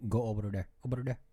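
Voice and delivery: put-on Filipino accent with b for v in over; demonstrating her family's speech, light Filipino accent. Filipino accent, obah dere. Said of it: "you just do your B's and your V's different".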